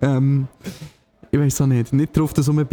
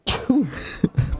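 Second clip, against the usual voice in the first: sneezing; 12 semitones higher, 3 dB quieter than usual. Real, not acted. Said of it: "ich muss schon wieder niesen".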